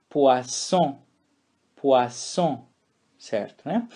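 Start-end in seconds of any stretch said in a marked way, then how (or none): 0.1-2.6 poisson with a sharp S sound; French poisson with S. Shown as a demonstration. Teacher shows the right way to say poisson. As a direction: hiss the S in poisson. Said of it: "essa palavra se lê".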